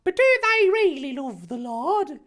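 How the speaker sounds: high, loud put-on questioning voice; timid Harry. Harry questioning Dumbledore, supposedly timidly. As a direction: pipe up with a doubt. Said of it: "Harry posited timidly".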